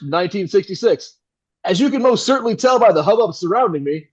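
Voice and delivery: smooth, brisk on-air announcer voice; suave radio announcer. Acted. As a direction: sell it like a slick radio host on air. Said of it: "pivots abruptly to suave radio announcer voice".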